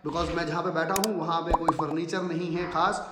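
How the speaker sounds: echoey voice in a bare room. Real, not acted. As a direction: speak with a room echo, like a cave. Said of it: "And sorry for the echo". (गूंजती हुई आवाज़, खाली कमरे की इको)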